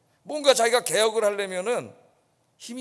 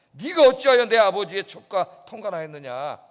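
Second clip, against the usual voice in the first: loud rebuke of 네가 어찌하여 as an offended king; scolding king; 7 dB louder than usual. Acted. King scolding his general, loud rebuke. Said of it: "네, 꾸짖었어요".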